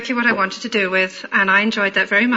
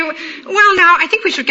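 lightly imitated upper-class London accent; a hint of upper-class London vowels; 7 semitones higher than usual. The caller steering back to business, upper-class accent. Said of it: "this very upper-class voice".

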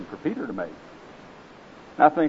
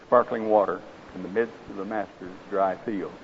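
story narration. A narrator's reading. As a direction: tell the parable gravely, savouring each image. Reads parable aloud in sermon.

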